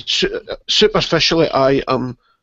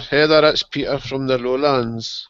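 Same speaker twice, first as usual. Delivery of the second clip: put-on slow, careful Dutch accent; drawn-out attempt at a Dutch accent. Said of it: "That was trying to be my Dutch accent".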